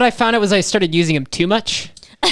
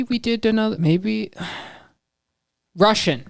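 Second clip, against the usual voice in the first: put-on Russian accent; 5 semitones higher than usual. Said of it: "you have a very good Russian accent".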